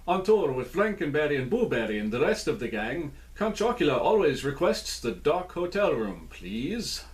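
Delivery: a hint of Transylvanian vampire in the reading; Transylvanian accent. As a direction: read the blurb in a light Transylvanian count accent. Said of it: "my Transylvanian accent".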